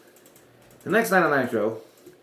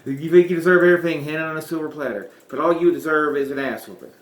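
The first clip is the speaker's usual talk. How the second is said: raised, louder scornful growl; gruff Piper impression; 4 semitones higher, 5 dB louder than usual. Host retrying the Piper voice against Jarrett, louder gruff impression. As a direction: spit it at the upstart. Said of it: "trying to do Scott Jackson".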